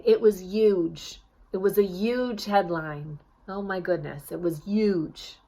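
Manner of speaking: New York newsie dropping the H, huge said as yuge; a lightly voiced New York newsie, huge with no H; newsie New York accent. Shown as a demonstration. Coach acting a newsie who says huge as yuge. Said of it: "a newsie might say".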